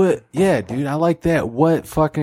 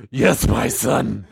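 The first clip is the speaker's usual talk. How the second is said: slow, lower solemn God; 5 semitones lower, much slower than usual. Acted. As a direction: speak slowly like God.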